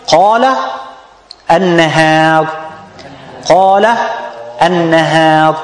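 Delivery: qala heavy, an-nahar with a thin a; heavy then light alif. Shown as a demonstration. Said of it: "you see the difference".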